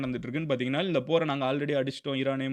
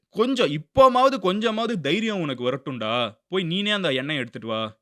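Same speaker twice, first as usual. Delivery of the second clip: mocking Trump; 3 semitones higher, 4 dB louder than usual. Commentator voicing Trump taunting the UK, mocking. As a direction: jeer at an ally like Trump would. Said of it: "அந்த டோன்ல அவர் பேசியிருக்காரு".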